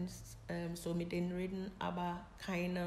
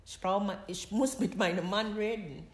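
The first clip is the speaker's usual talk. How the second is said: insistent, louder retold demand on the phone; urgent demand; 2 semitones higher, 6 dB louder than usual. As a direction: press her hard for the number, raising the voice. Insists on husband's number on phone.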